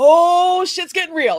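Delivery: put-on giddy, thrilled excitement, loud. Retelling walking toward the shop as the open sign appears: imitating own giddy excitement. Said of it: "I'm getting giddy".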